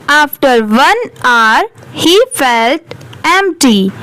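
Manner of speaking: very slow, word by word English reading; slow read-aloud. Shown as a demonstration. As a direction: read each word out slowly for learners. Reads the story aloud slowly. (धीरे-धीरे शब्द-शब्द पढ़ना)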